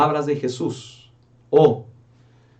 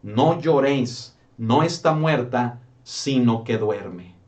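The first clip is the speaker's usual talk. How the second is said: gentle, slow words of Jesus; 2 semitones lower, slower than usual. Retold or imitated. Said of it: "Pero él dijo". (consuelo lento y suave)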